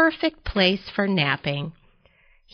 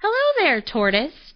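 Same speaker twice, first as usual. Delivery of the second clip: high, lilting bird greeting; chirping robin; 7 semitones higher than usual. A narrator's reading. Robin greeting a sleepy tortoise, chirping. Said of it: "chirped Robin".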